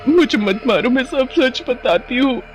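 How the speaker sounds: put-on high, pleading girl voice; acted panic of a cornered bride; very frightened. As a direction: beg for mercy, terrified. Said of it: "बहुत डर जाती है और बोलती है".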